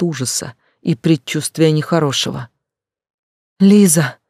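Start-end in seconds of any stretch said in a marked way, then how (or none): 3.6-4.2 higher, louder shout; higher, louder shout from outside. A narrator's reading. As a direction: scream her name up at the window. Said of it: "закричала ещё раз с улицы".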